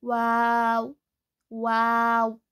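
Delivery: वाव slow, lips rounded but not touching; वाव: rounded w, lips apart; Arabic waw. Shown as a demonstration. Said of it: "Both the lips do not meet".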